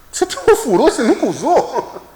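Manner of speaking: high-pitched, laughing disbelief; retold amazement. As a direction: squeak it out, amazed, breaking into a laugh. Acts out amazement at the colleague. (espanto recontado, agudo, com riso)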